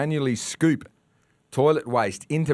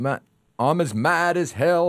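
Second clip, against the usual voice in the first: raised, slow mock movie rant; Peter Finch rant; 5 semitones higher than usual. Radio host to listeners, hammed-up movie rant. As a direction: channel the Network rant, mad as hell. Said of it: "I feel like Peter Finch in the movie Network".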